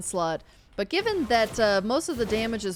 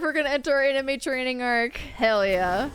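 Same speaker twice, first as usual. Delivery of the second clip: higher, louder hype-up; hyped; 5 semitones higher, 4 dB louder than usual. Real, not acted. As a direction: pump up the crowd. Hyping the team's comeback.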